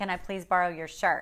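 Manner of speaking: normal talking voice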